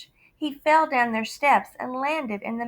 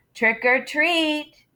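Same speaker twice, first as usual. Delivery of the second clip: slow, somewhat higher and louder; louder trick or treat; a little louder; 5 semitones higher, 4 dB louder, much slower than usual. Acted. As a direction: say it up a notch. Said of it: "He said it a little louder".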